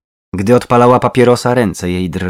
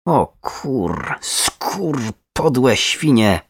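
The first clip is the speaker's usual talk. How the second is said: slow, spat-out curses; bitter swearing, not shouted; aggressive cursing; 4 dB quieter, much slower than usual. A narrator's reading. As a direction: spit out each curse separately. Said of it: "Jej głos stał się jeszcze bardziej agresywny".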